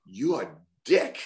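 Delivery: slow, deliberate imitation; Tiger Mask. Colleague translating the phrase, slow put-on voice. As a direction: deliver the verdict slowly, word by word. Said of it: "Tiger Mask, who speaks pretty good English".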